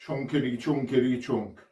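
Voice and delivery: rhythmic elephant plod, falling at the end; elephant impression. Shown as a demonstration. Showman introducing the elephant, playful plodding impression. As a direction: chant it like a lumbering elephant. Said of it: "do an impression of an elephant".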